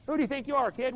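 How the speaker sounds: put-on dad puts the cocky kid in his place; scolding dad.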